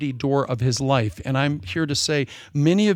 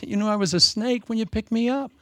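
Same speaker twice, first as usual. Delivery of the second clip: snake's sly reply; 7 semitones higher than usual. Retold or imitated. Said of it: "He goes".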